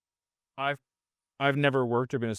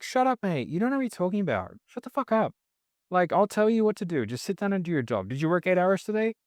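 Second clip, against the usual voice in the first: higher-pitched mock tirade from a boss; lightly voiced angry manager, not truly shouting; mock boss rant; 5 semitones higher than usual. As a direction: play a bossy manager, half-joking. Mimicking a boss yelling at setters.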